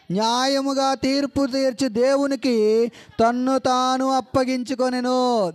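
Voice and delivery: slow, measured Bible reading; scripture reading. Acted. Preacher reads First Peter slowly to the congregation. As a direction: read the verse slowly and solemnly.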